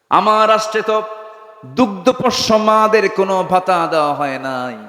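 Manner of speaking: high, chanted wail of confession; retold tearful lament. Omar laments before Allah for nursing mothers, acted high lament. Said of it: "কান্নাকাটি শুরু করে দিলেন".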